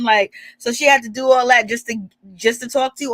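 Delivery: ordinary talk, nothing marked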